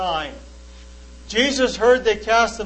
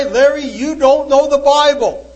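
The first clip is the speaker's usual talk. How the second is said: louder, higher, scornful retort; indignant quote; 4 semitones higher, 6 dB louder than usual. Retold or imitated. Preacher quoting the Muslim's dismissive email reply, louder and higher. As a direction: fling it back as a put-down.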